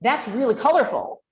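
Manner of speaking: a bright, lifted compliment on the colours; pleased parent praising a drawing; excited praise. Shown as a demonstration. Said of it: "that shows I'm really excited".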